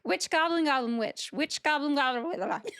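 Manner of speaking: quick singsong attempt, fumbling at the end; fast tongue-twister. Shown as a demonstration. Cohost takes her turn after "see if you can do it better", fast tongue-twister. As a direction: race through the tongue-twister until it falls apart. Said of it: "Say that five times fast".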